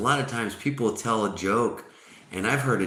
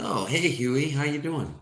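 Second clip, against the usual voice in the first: higher-pitched, upbeat mock hello; friendly bartender greeting; 8 semitones higher than usual. Bartender greets the first duck in a joke, upbeat. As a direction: greet a regular with playful cheer.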